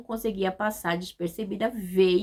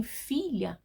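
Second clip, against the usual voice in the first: gentle affectionate address; with tenderness; 2 semitones higher than usual. Shown as a demonstration. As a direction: say it like a father comforting his child. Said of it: "com carinho".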